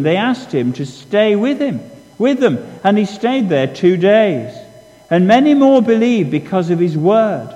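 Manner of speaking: measured Bible reading, slowing toward the end; scripture reading. Acted. Preacher reads the Gospel passage to the congregation, measured and solemn. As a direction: read the passage aloud to the congregation.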